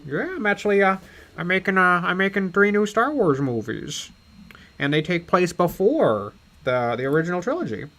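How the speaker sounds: lightly voiced film director impression; a hint of a mock director voice; George Lucas. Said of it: "And then George's like".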